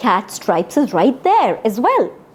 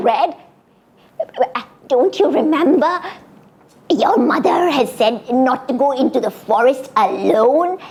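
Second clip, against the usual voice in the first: talking cat; 2 semitones higher than usual. Acted. Cat warns Red.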